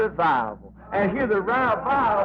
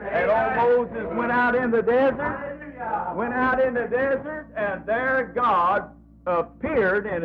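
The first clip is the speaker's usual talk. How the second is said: drawn-out preacher's cadence; slow preaching; 3 semitones higher than usual. Acted. Preacher telling the church of the burning bush, slowly. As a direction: stretch each phrase like a revival preacher.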